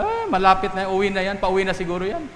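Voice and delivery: lightly acted dismissive husband; a hint of a nonchalant dad; unbothered father. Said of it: "Ganyan yung tatay".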